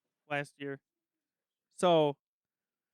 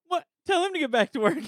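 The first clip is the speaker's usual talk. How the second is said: mock order; 9 semitones higher, 4 dB louder than usual. Retold joking order to a friend.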